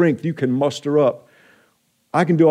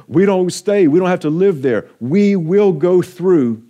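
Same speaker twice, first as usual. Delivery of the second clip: higher and louder, each word hammered out; emphatic preaching; 5 semitones higher, 4 dB louder than usual. Shown as a demonstration. Pastor urging the church not to stay in hard times, emphatic. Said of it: "But I want to emphasize that".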